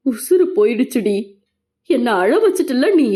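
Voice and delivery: understated tearful reproach; a touch of a sob in the voice; childlike sobbing. Acted. Husband to injured Meenal after the scare, mildly sobbing. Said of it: "சிரிப்பிள்ளையாய் தேம்பினான்".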